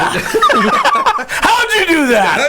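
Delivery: very high, stretched-out disbelief with laughter; mock astonishment. Man to Sean after the car got out, hammed-up amazement. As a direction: imitate someone amazed, voice shooting up. Retold astonished reaction to escape.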